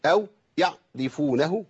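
يعرفونه with the ain sounded as a glottal catch; slow يعرفونه, ain turned to a hamza; wrong ain. Shown as a demonstration. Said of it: "كل دي أخطاء بنسمعها".

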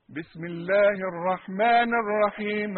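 hamza dropped, الرحمن joined to الله; reading الرحمن linked with no glottal stop; connected reading. Shown as a demonstration. Teacher reads to the class, slow and linked. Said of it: "إذا وصلت".

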